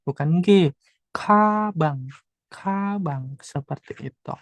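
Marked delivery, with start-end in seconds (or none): 1.1-3.3 "Kabang" opening on a breath-puffed KH, not G; aspirated K. Shown as a demonstration. Teacher correcting learners' first consonant, "Kabang" with aspirated K. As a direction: puff air after the K in "Kabang". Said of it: "dibaca K H ya".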